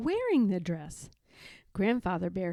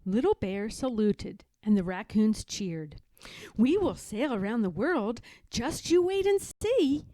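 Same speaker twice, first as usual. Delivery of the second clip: proud little captain. Acted. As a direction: announce it like a bold young captain.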